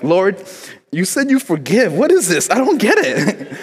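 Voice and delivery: high, dramatic mock plea; hammed-up desperate appeal, swooping high; panicked pleading. Child pacing before dad arrives, pleading with the Lord in mock panic.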